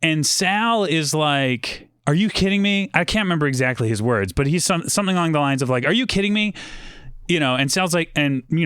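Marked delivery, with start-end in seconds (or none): 2.1-2.9 higher-pitched retold disbelief; incredulous. Sal reacts to Mookie's demand. 5.9-6.5 imitated affront, pitched up; mock disbelief at a cheeky demand; incredulous. Repeats Sal's gist of reaction.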